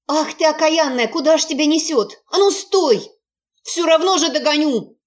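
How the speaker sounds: put-on high yelling old woman; shrill nagging grandma. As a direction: yell after the runaway hut like an angry granny. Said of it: "вопил кто-то".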